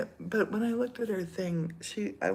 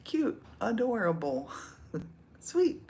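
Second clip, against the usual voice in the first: mock gushing comment; 4 semitones higher than usual.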